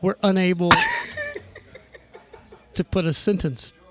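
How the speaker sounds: long pauses mid-sentence, a chuckle breaking in; playfully disjointed, stop-start speech; halting impression. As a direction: stall between phrases as if losing the thread. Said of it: "it's the way he talks".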